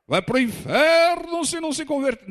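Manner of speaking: high, loud, drawn-out mock condemnation; hammed-up hellfire preacher; pedantic religious zealot. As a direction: imitate a zealot yelling at a sinner. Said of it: "pedante religioso que fica apontando o dedo".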